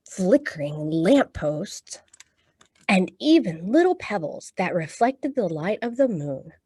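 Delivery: storytime picture-book reading; reading to children. Acted.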